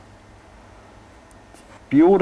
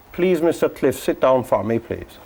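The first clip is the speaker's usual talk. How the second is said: coaxing plea. Pretend. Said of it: "ask it to sit down".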